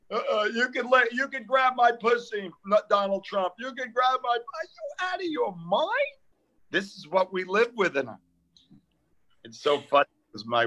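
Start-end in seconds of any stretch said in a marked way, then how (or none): 0.1-4.3 mock protester. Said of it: "people on tele with Nazi signs going". 4.3-6.2 high, slow disbelief; how can they say this; outraged. Real, not acted. Comic ranting at protesters, slow and high.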